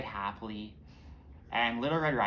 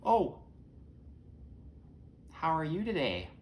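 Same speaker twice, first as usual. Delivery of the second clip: high, swooping put-on granny voice; wolf playing grandma, high and sing-song; yelling from the bed; 6 semitones higher than usual. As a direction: call out sweetly, pitched well up. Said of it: "somebody from the bed yells".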